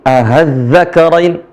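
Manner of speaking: az-zakarain with the hamza eased between hamzah and ha; slow tashil az-zakarain; tashil reading. Shown as a demonstration. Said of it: "bisa dibaca dengan tashil".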